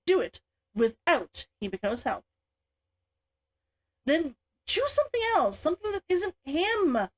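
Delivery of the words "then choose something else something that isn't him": growled. A narrator's reading. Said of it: "Himiko growled".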